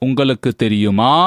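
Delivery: closed question with "தெரியுமா" rising on its final vowel; inflected question. Shown as a demonstration. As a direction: lift the ending "maa" of "தெரியுமா". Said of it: "there is an inflection in closed question".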